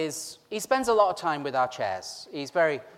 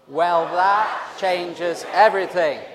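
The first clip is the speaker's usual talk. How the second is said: slow, louder, every word spelled out; loud and clear; 5 dB louder, slower than usual. Shown as a demonstration. Leading the congregation in the slide phrase, slow and loud. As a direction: lead the crowd in saying it loud and clear. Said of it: "nice, loud, loud and clear".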